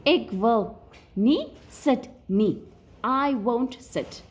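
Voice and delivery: slow, stubborn refusal; mock refusal. Shown as a demonstration. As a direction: act out a pupil who refuses. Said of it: "And then the person says".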